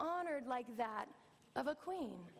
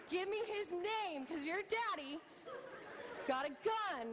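mock fierce parent; 3 semitones higher than usual. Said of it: "I'm like".

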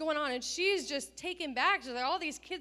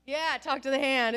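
sassy dismissal; 10 dB louder than usual. Retold or imitated. Daughter dismissing insults.

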